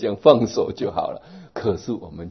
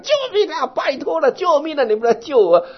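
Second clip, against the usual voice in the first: much higher, louder pleading yells; frantic cry for help; 6 dB louder than usual. Retold or imitated. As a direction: beg the crowd to save you, full voice. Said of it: "还在那里喊".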